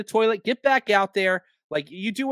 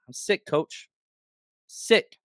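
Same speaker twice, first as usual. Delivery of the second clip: mock sick player; 2 semitones lower, 3 dB quieter, slower than usual. Host mocking the player telling coach he's sick, softly whining. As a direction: lightly whine it like a player faking illness.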